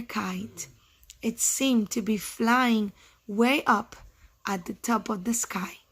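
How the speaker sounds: slow, measured read-aloud; storybook reading pace; story narration. A narrator's reading. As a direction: read slowly to children, pausing between phrases.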